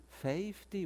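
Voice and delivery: puzzled echo of Southern "FAY-fty"; lightly mimicked Southern "fifty"; Southern dialect. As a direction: repeat the Southern vowel lightly. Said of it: "I know Southern dialect".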